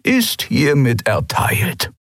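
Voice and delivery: put-on slow, glad old purring voice; old Skria greeting his old friend gladly. A narrator's reading. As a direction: greet her slowly and warmly. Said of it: "sagte Suran".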